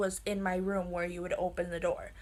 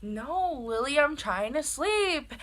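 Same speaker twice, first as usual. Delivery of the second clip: higher, drawn-out mock complaint; exasperated mom; 5 semitones higher, slower than usual. Mom refusing to come upstairs, mock exasperated whine. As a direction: imitate a fed-up mother refusing, stretching the words.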